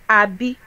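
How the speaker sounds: "Abby" as ah-bee, ending on a rise; correcting tone. Shown as a demonstration. Correcting friends who miss tone, rising ending. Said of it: "can't you hear tone?".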